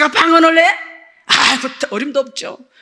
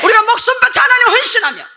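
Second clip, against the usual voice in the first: raised, high-pitched exhortation; full-force preaching; 6 semitones higher than usual. Real, not acted. Preacher promising angels to the devoted, impassioned high preaching. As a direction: drive each clause up to the congregation.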